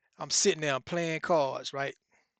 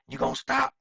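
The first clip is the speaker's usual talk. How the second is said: much higher, raised demand; 9 semitones higher, 3 dB louder than usual. Retold or imitated. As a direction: push him to give up. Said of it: "you can hear Ken saying".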